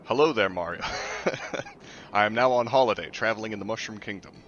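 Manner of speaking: sweet fairy tale princess, lightly voiced; a hint of a sweet princess; Princess Peach voice. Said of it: "I'll do my best Princess Peach impression".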